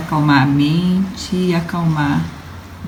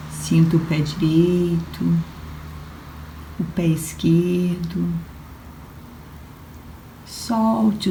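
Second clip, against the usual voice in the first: guided relaxation. Acted. Yoga instructor guiding listeners lying on the floor, guided relaxation.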